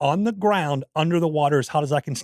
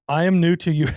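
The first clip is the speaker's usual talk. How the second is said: put-on hesitant try at a Russian accent, breaking off; lightly put-on Russian accent; attempted Russian accent; 2 semitones higher, 4 dB louder than usual. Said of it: "gonna try to do the accent".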